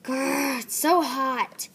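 growl, then a loud, drawn-out complaint; Riley mad. Acted. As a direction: growl and grumble loudly, stretching the words. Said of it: "And this is her mad".

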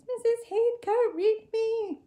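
put-on loud high playful shout of a child; excited kids shouting the teacher's name; mock scream. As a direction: call out like eager kids. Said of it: "just kind of screamed".

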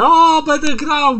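put-on high, slow, drawn-out childish joy; blissful delight. A narrator's reading. Spike gushing over the Xbox, high and slow with delight. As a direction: savour each word like a treat. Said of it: "anielił się".

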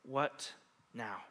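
a humble, hushed "What now?" offered up to God; open gentle question. Shown as a demonstration. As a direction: ask "What now?" quietly with an open hand. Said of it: "placing that hand out and asking the question".

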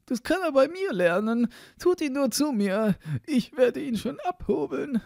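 high-pitched sexton character voice; high-voiced know-it-all; self-assured sexton. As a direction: promise confidently in a high, put-on voice.

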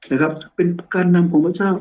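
ordinary delivery

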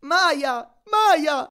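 high, loud, frantic command; panicked high-pitched cries; protesting yell. A narrator's reading. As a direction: shout the magic word in protest. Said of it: "protestò lui".

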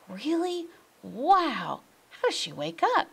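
high, fast, amazed questions; excited. A narrator's reading. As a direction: gasp it out, thrilled to know.

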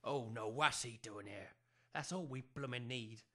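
soft, low muttering; muttered aside. Acted. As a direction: grumble so the guest can't hear. Couple mutter as visitor arrives.

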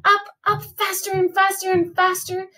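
high, lilting, speeding up; building excitement. A narrator's reading. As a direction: sing out the climb to the top. Climbing excitement.

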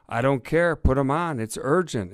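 loud, high-pitched demand; urgent insistence. A narrator's reading. Fox demanding the inspector from the sergeant, urgently insisting. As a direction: insist forcefully, refusing to wait. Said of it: "insisted Fox".

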